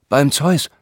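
a lively mock oath; stage oath. Herr August recites for the men, a lively mock oath. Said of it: "verlieh so jedem Teilnehmer einen eigenen Ton".

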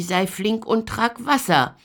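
put-on loud, high shout from the old witch; impatient witch yelling for Gretel; witch calling out. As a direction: bark across the house to Gretel. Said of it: "rief sie".

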